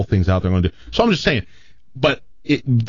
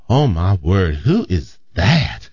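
mild Southern gay imitation; 2 semitones lower, much slower than usual. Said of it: "my natural gay imitation just comes across as Southern".

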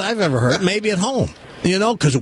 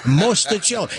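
relished Italian; 4 semitones higher than usual. Shown as a demonstration. Urging a caller to feel Italian, relished Italian. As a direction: savour the Italian word. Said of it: "You'll feel Italian".

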